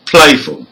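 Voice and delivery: "playful" stressed on PLAY, light ending; first-syllable stress. Shown as a demonstration. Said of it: "the first syllable".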